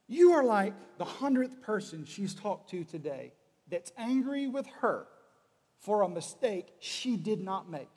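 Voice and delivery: slow, measured fatherly lecture; patient lecture. Acted. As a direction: spell it out slowly for a son. Father reasons slowly with son.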